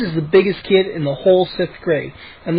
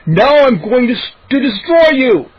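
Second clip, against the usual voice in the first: zombie monster; 6 semitones higher, 5 dB louder than usual. A narrator's reading. Moose playing zombie monster.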